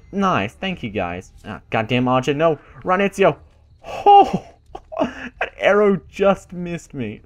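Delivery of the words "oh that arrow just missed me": real high yelp breaking into a laugh; squeal, then laugh it off slowly. Real, not acted. Player dodging an arrow, high laughing yelp. Arrow nearly hits him.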